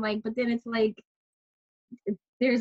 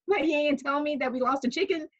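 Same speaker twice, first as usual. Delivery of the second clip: high, laughing indignation; much higher, half-serious outrage; laughing mock outrage; 8 semitones higher than usual. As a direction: scold while cracking up. Retold scolding, laughing.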